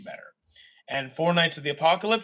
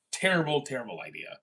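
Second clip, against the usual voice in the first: trailing mutter; 3 semitones lower, 6 dB quieter than usual. Shown as a demonstration. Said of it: "That's a terrible idea".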